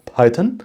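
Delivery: Python ending in a short "-tən"; chosen weak-vowel variant. Shown as a demonstration. Presenter settles on his own choice, Python with a weak "-tən" ending. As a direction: say Python with a reduced second vowel. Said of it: "So I will say".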